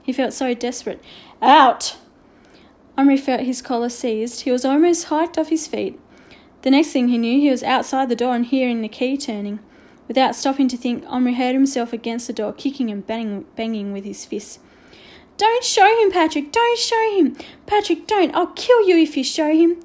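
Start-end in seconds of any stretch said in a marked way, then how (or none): 1.4-2.0 one loud barked order; roared. A narrator's reading. Headmaster throws the boy out, roaring. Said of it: "he roared". 15.4-19.8 high, frantic yelling; desperate plea rising into a threat; screamed. A narrator's reading. Locked-out Omri screams at his friend through the door. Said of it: "he screamed at the top of his lungs".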